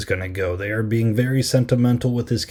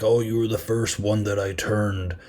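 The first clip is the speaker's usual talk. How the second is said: villain monologue. Retold or imitated. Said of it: "he gave the classic bad guy dialogue".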